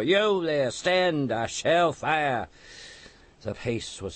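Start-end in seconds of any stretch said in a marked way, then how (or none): 0.0-2.5 high, loud shouted warning; guard shouts at the rider to stand; loud threat. A narrator's reading. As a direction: bellow the threat to fire.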